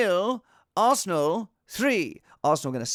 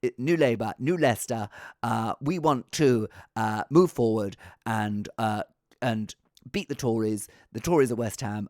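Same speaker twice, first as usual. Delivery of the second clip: terrible Tony Blair; 5 semitones lower than usual. Pretend. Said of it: "this is a terrible impression".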